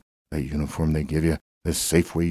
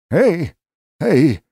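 shouted Hey, pitched high and loud; calling out; 10 semitones higher, 4 dB louder than usual. Acted. Shouting Hey to warn the shop staff about the horses. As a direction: yell to get attention across the store.

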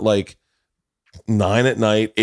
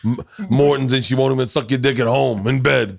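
crude, laughing Joey Diaz rant; lightly voiced, half-laughing Joey Diaz riff; Joey Diaz impression. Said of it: "Joey Diaz would just start talking".

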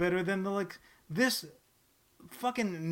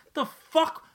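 loud, higher outraged rant at the comic; indignant yelling; 3 semitones higher, 14 dB louder, slower than usual. Real, not acted. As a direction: shout your disbelief at the publisher. Ranting at Marvel's label.

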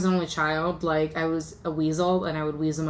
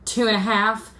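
mock mom count; 2 semitones higher than usual. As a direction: drag out the countdown, breaking into a laugh.

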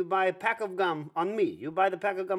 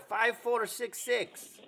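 dictating slowly; 3 semitones higher, slower than usual. Acted. Reading card number to caller.

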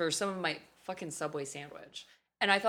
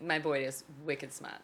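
put-on Boston accent; 3 semitones lower than usual. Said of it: "I moved to Boston".

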